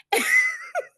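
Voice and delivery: short, high burst of laughter; real amused laugh. Real, not acted. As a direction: break into a quick high-pitched laugh. Laughs at retold exchange with nurse.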